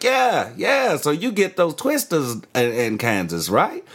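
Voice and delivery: put-on Australian accent. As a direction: lightly mimic an Australian seeking agreement. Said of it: "One of those dudes from Australia".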